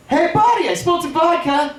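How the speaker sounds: very high sing-out to a buddy; high-pitched luring call. Retold or imitated. Luring his drunk buddy to the trash can, high-pitched call. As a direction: call it out in a high, innocent lilt.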